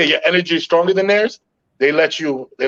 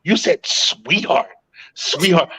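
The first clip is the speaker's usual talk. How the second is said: lightly voiced girlfriend. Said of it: "she goes".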